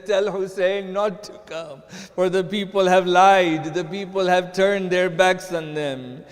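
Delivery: loud, mournful preaching; grieving plea. Acted. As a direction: mourn it out to the crowd. Preacher retelling Muslim's final plea.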